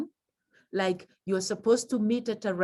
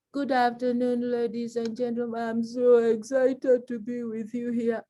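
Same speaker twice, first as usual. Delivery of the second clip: fake excitement. Shown as a demonstration. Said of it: "You will know I'm not excited".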